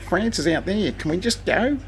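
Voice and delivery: very high, whiny plea; husband begging his wife to leave the supermarket, whiny and high; whiny corrected version. Shown as a demonstration. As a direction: wheedle it like a fed-up husband. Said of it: "It's more like".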